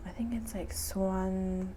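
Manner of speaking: soft unsure whisper. Real, not acted. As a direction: whisper a guess to yourself. Unsure aside to child.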